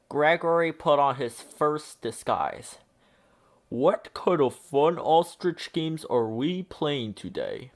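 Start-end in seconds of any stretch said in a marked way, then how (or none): 3.7-7.7 a touch of hopeful eagerness, lightly voiced. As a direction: ask with mild hope in the voice. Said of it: "he asked the ostriches hopefully".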